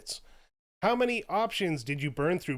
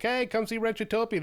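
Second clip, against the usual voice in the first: higher-pitched convention barker; calling out; 8 semitones higher than usual. Acted. Host pretending to invite convention visitors to the show, calling out. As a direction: hail passers-by with a pitched-up invitation. Hawking their panel at a convention.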